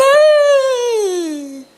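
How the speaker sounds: um "ah" agudo e choroso, imitando a manicure; suspiro de espanto. Retold or imitated. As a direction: imite o espanto emocionado dela. (a manicure espantada com a profecia, soltando um "ah" choroso)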